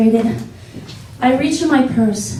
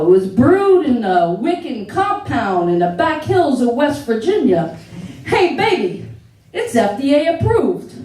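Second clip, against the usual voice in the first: put-on boyfriend's Lower East Side accent; 2 semitones higher than usual. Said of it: "He's got an accent".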